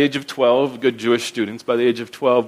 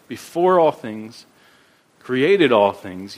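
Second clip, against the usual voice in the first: slow emphasis; slower than usual. Real, not acted. Stressing God's primacy, slow.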